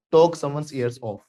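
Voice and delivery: slow clear model phrase; slow idiom demo. Shown as a demonstration. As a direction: spell the idiom out slowly. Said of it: "बोलो".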